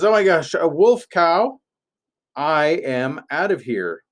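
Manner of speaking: high-pitched playful panic; mock alarm. Acted hired shepherd fleeing the wolf.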